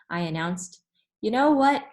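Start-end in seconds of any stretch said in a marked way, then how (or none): 1.2-1.8 higher and louder, eager teacher; bright teacher voice. Acted. To the class, the teacher's eager secret. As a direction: lean in like a sunny teacher letting kids in on a secret.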